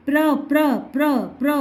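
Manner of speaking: प्र repeated as a short, separate pra; repeated syllable drill. Shown as a demonstration. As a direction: drill प्र over and over for a pupil. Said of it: "अब ये बोलो प्रकाश". (प्र को बार-बार अलग-अलग बोलना)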